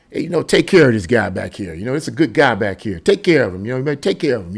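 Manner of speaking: low, easy mob-boss talk to the driver; gangster boss. Retold or imitated. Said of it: "he's like".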